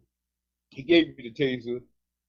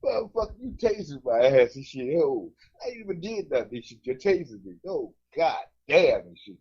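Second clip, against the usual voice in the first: mock outraged yelp. Acting out being tased.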